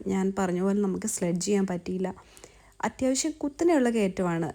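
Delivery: panting breathy words; gasping between words on a climb; out of breath. Real, not acted. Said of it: "ശ്വാസം എടുക്കുന്നത് നല്ലപോലെ ഈ വീഡിയോയിൽ കേൾക്കാം".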